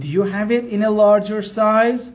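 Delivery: slow, carefully spaced English; slow teaching demo. Shown as a demonstration. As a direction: spell it out slowly for learners. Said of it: "حالا اینو ترجمه بفرمایید".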